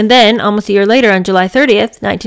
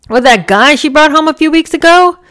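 incredulous; 8 semitones higher, 4 dB louder than usual. Acted. Grandpa reacts in disbelief.

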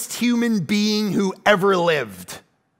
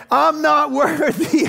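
hammed-up, drawn out, laughing through it; mock worshipful Wayne's World chant, slow; Wayne's World bow; 5 semitones higher, 3 dB louder, slower than usual. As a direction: grovel like Wayne and Garth. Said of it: "We need a little Wayne's World".

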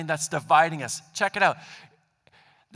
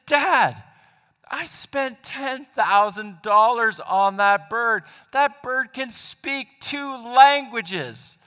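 slow, higher, held-back exasperation; exasperated son; 3 semitones higher, much slower than usual. Retold or imitated. Son holding his patience with his father, slow and exasperated. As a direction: spell it out slowly to a clueless dad.

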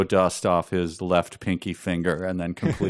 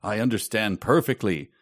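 put-on French Canadian accent. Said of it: "maybe my Canadian accent".

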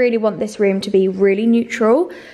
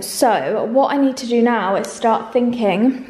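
hallway echo. Real, not acted. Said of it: "it's very echoey".

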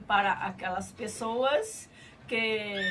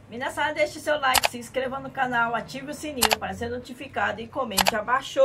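upbeat outro call; 2 semitones higher, faster than usual. Real, not acted.

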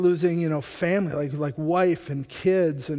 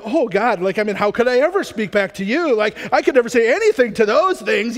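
put-on mildly sarcastic teenager talking back; teen giving lip; 3 semitones higher, 5 dB louder than usual. Preacher voicing Job as a teen sassing God, mild sarcasm. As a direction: give God a little lip like a mouthy teen, lightly. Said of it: "like a teenager giving God a little lip".

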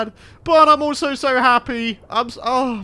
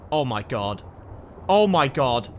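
rising panic; 2 semitones lower than usual. Real, not acted. Diving into the dark cave, panic builds from murmur to cry. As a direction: repeat it, climbing in panic each time.

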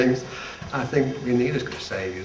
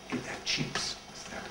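put-on French accent; 10 dB quieter than usual. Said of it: "with a beautiful accent".

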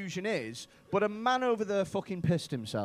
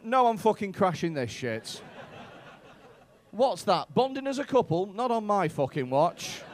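loud mock indignation; mock defiance; 6 dB louder than usual. Comic voicing a friend gatecrashing a romantic night, mock defiant. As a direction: refuse it loudly, playing the spoilsport. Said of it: "you've gone".

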